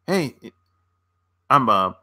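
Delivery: ordinary talk, nothing marked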